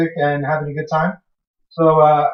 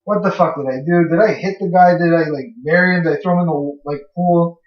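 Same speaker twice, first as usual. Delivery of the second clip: panicked self-quote. Retold or imitated. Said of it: "I'm tripping out. I'm like".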